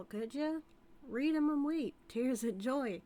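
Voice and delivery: cocky outlaw rubbing it in, loud and pleased; gloating taunt. Acted. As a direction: slap it down like a winning hand. Handing over papers, gloating.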